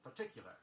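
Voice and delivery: particular with a clear y glide, par-tic-yu-lar; y sound. Shown as a demonstration. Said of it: "Be sure you get the y sound in it".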